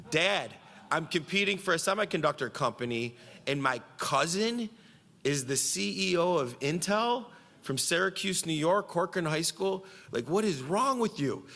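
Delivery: high-pitched exasperated disbelief; incredulous outburst. Retold or imitated. Retold incredulous outburst at dad.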